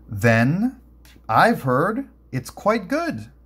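slow, drawn-out sarcastic huff; a grudging, huffy comeback; huffy retort. Acted. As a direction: let it out with a slow huff of disdain. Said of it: "Lutz and huffed".

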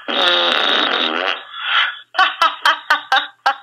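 mock rude noise with a laugh; imitated noise. Shown as a demonstration. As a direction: make the silly sound, then crack up. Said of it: "si sente un rumore più o meno così".

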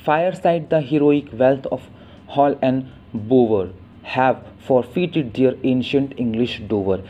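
slow, weighty poem reading; poem recitation. Shown as a demonstration. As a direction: recite the sonnet slowly and gravely.

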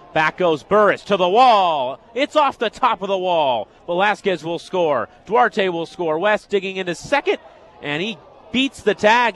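energetic baseball call; excited radio commentator calling a double; live play-by-play. Real, not acted. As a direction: follow the ball with rising urgency. Calls a run-scoring double live.

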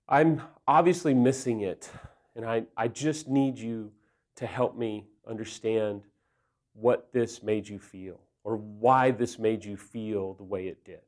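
humble appeal. Acted. Husband asking wife to help him understand, humble.

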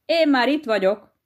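mild mock call. Shown as a demonstration. Hedgehog teaches his wife what to shout, mild mock call. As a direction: show her how to call out, half-voiced. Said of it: "szembe kiabálod vele".

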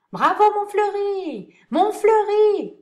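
loud drawn-out cheer; cheering shout. Acted. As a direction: cheer him on, slowly. Parterre cheers the actor.

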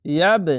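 ইয়াব with a bouncing final b; qalqala echo. Shown as a demonstration. Teacher demonstrates the echo rule, bounced final b. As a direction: release the b of ইয়াব in a short echo. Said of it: "নিচে sound আসবে কলকলা".

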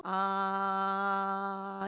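a long, steady, slow sung "아"; held vocal tone demo. Shown as a demonstration. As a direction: let "아" ring out level as the vocal folds vibrate. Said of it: "이렇게 마찰을 하면서". (성대가 떨리는 소리를 길고 평평하게 시범)

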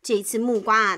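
usual speaking voice

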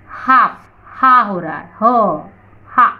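"हाफ" broken down to an audible "हा"; H-sound demo. Shown as a demonstration. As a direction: sound the h clearly in "हा" and "हो". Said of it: "अब यहाँ पे देखिए एच". ("हा" में ह साफ़ सुनाना)

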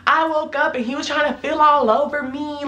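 mock wounded protest; retold accusation. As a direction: imitate an aggrieved friend. Friend's retold accusing complaint.

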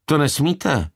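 high, computer-like clerk voice; high-pitched toneless receptionist; monotone. A narrator's reading. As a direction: object like an automated answering system. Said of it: "opáčila Downová monotónním hlasem".

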